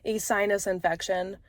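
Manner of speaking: stuffy, congested voice; blocked nose. Real, not acted. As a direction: talk through a blocked nose. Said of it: "I'm very congested".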